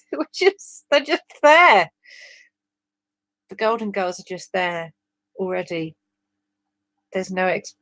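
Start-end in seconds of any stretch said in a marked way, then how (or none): 0.1-1.9 high, louder incredulous outburst; amused disbelief. Real, not acted. Reader reacts to Golden Girls turning up, high incredulous outburst. 3.5-5.9 softer, settled-down repeat; subdued bafflement. Real, not acted. Reader takes in Golden Girls being there already, softly baffled.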